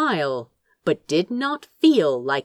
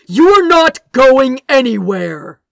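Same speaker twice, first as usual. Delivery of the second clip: loud, higher roar of command; thundering; 6 semitones higher, 7 dB louder than usual. A narrator's reading. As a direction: thunder it at him. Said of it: "Gabriel thundered".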